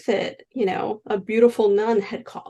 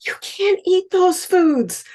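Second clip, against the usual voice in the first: higher, slower, louder stern husband; husband objecting; 10 semitones higher, 5 dB louder, slower than usual. Retold or imitated. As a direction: forbid it like the worried husband. Husband objecting to dying wife.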